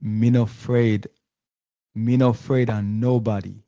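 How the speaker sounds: a light first try at Jamaican patois; Jamaican patois accent. Shown as a demonstration. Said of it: "my best Jamaican patois accent".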